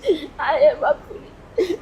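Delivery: half laughing, half crying, slowly; laughing through tears. Real, not acted. Crying woman recalling father. (ਹੱਸਦੇ ਰੋਂਦੇ ਹੌਲੀ ਬੋਲਣਾ)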